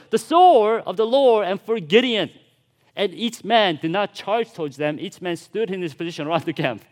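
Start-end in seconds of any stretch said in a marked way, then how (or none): 0.1-2.3 louder, higher proclaimed war cry; shouting. A narrator's reading. Preacher reads Israelites' shout as a raised battle cry. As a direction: ring it out like an army's shout. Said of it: "They shouted".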